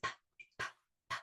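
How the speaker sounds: "p" as a tiny puff of air; letter P sound. Shown as a demonstration. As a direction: separate popping "p" sounds, no vowel. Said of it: "Letter P says".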